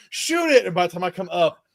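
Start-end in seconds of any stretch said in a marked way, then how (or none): 0.1-0.6 high, louder urgent call; imitating a buddy calling out; retold yell. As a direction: shout the command to a friend. Buddy calls out during hunt.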